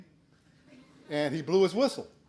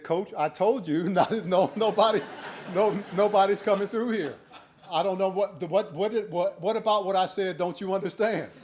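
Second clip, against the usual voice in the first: higher and laughing through a mock brag; cocky taunt; 4 semitones higher than usual. New kid bragging to the coach after the big hit, laughing. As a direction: crow it at the coach, cracking up.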